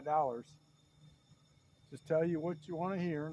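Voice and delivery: playful hint of a Southern good-old-boy accent. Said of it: "getting back to my Yankee voice".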